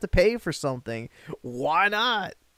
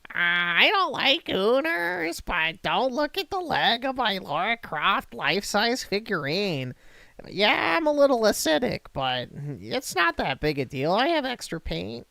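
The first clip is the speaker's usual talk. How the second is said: screeching hag voice; 3 semitones higher than usual. Retold or imitated. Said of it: "that disgusting screeching hag voice".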